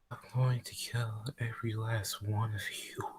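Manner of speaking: menacing demon whisper; demonic voice. Acted. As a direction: breathe the threat like a demon. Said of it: "A demonic voice".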